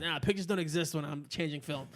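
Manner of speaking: put-on light old-school Bronx accent on Nah and pictures. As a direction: lightly imitate a New York Bronx guy. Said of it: "in such a New York Bronx kinda way with that accent".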